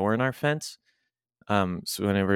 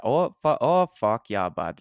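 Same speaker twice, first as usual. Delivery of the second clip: Canadian Alberta accent, pitched up at first. Shown as a demonstration. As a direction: do a hearty Albertan "oh yeah". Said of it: "'cause Alberta, you get that".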